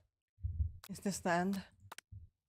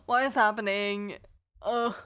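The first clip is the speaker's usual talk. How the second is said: confused shout; 2 semitones higher, 7 dB louder than usual. Acted. Waking up dazed and loud.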